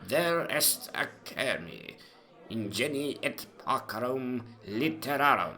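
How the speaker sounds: lightly voiced Doctor Johnson, pompous Latin; a hint of the stern doctor pronouncing judgement; Johnson's Latin verdict. A narrator's reading. Johnson scorns the French philosopher, lightly stern. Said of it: "used to say of the French philosopher".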